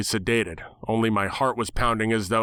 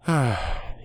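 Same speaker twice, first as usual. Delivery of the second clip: contemptuous sigh; 3 semitones higher than usual. Acted. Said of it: "contemptuous sigh from Stupid Bird".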